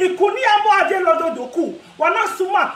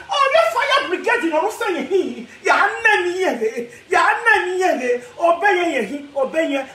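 mock wailing; slower than usual. Vlogger mimics someone calling the fire brigade, mock wailing. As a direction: stretch the words out in a mock wail.

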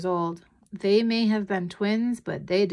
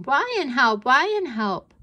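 put-on high, loud little-boy shout; small child calling out, repeated; 6 semitones higher, 6 dB louder than usual. A narrator's reading. Little brother following his sister, shouting.

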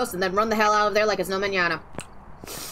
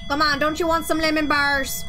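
put-on coaxing in a light Minnesota accent; sweet Minnesota mom voice; 3 semitones higher than usual. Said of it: "Why am I doing a Minnesotan accent?".

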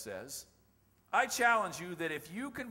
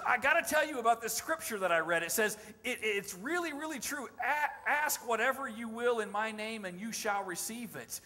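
retold eager excitement, a bit higher; all excited; 5 semitones higher, 4 dB louder than usual. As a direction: tell it like someone bursting with news. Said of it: "and he's all excited".

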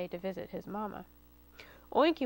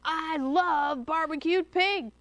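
slow, louder hungry fox voice; sly fox cry; 4 semitones higher, 4 dB louder, slower than usual. A narrator's reading. Fox tells Rooter he wants barbecue, slow gloating. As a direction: savour the word barbecued. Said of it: "cried the fox".

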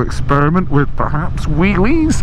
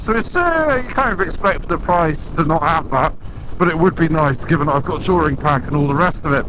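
wind noise; 4 dB quieter than usual. Real, not acted. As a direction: speak against roaring wind. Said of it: "You probably can't hear me because of all the wind noise".

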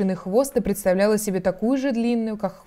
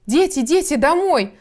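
high, louder, alarmed mother bird; trembling singsong canary; 7 semitones higher, 4 dB louder, slower than usual. A narrator's reading. Canary calls her children home, trembling singsong. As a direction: sing out a flustered high call. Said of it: "запела она дрожащим голоском".

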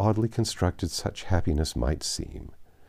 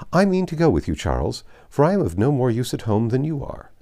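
high, loud and triumphant; great exultation; 5 semitones higher, 4 dB louder than usual. Acted. Mary telling her husband she will go, exultant. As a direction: crow it like a victory won. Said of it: "in a tone of great exultation".

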